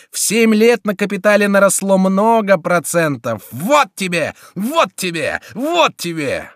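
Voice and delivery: high, loud taunting; furious gloating beating; vengeful fury. A narrator's reading. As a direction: relish each blow. Chico beating the duke.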